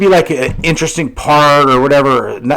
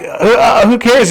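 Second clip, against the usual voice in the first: higher, careless shrug of a reply; dismissive teen; 8 semitones higher than usual. Retold or imitated. Teenager brushing off his mom's complaint, careless. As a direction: brush off the scolding. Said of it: "And I'm like".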